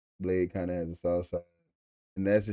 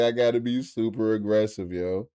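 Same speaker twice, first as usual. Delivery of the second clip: mock aggressive; 5 dB louder than usual. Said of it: "I was like".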